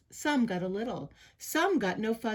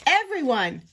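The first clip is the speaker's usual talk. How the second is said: high, loud, drawn-out plea; slow, ringing call for order; 8 semitones higher, 6 dB louder, slower than usual. Acted. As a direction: shout over a brawl, stretching the words. Pipsqueak calls to brawling crowd.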